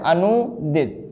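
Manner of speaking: each syllable drawn out slowly; slow dictation. Shown as a demonstration. Teacher dictating the correct spelling, slow and drawn out. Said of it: "अनुदित होता है।".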